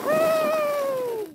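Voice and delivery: high gleeful whee; excited squeal. Real, not acted. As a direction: squeal with delight as you slide. Sliding off on the sled.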